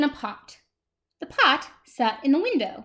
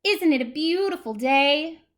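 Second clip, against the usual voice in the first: cheery tumbleweed, pitched up and louder; Rosie; 5 semitones higher, 6 dB louder than usual. Acted. Tumbleweed chatting to the cactus, cheerfully called out. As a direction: call it out in high good cheer. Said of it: "Rosie the tumbleweed called out".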